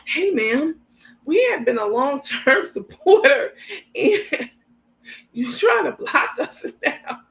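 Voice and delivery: high, pleading mock voice of a fan; mocking supporter voice. Vlogger mocking a supporter's message, high whiny voice. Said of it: "this is how it went in my mind".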